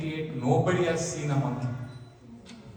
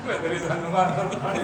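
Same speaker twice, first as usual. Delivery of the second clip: laughing through words. Real, not acted. Still laughing through punchline.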